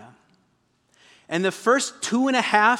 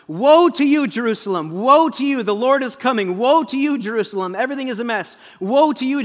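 prophet crying woe; 3 semitones higher, 4 dB louder than usual. Acted. Prophet warning Jerusalem, hammed-up loud lament. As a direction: cry out woe like a street prophet. Preacher acts the prophet's woes.

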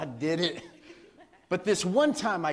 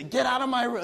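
bossy big sister; 6 semitones higher, 4 dB louder than usual. Retold or imitated. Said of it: "And she would just say".

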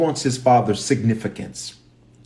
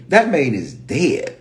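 drawn-out Memphis pronunciation; Memphis accent; 2 semitones higher, slower than usual. Shown as a demonstration. Joab announcing the death, in a Memphis accent. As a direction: stretch the vowels in a Memphis accent. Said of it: "If you from Memphis, we don't say man".

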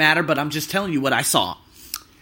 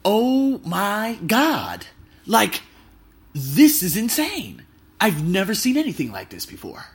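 amazed; 3 semitones higher, slower than usual. Retold or imitated. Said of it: "And I was like".

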